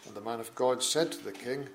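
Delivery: measured, solemn Bible reading; formal public reading from the pulpit; scripture reading. Acted. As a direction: read the King James text with steady gravity. Reads scripture aloud in church.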